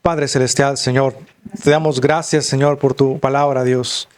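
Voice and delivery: steady earnest prayer to God; closing prayer. Acted. Pastor leading the congregation in a closing prayer, earnest. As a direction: pray it sincerely to close.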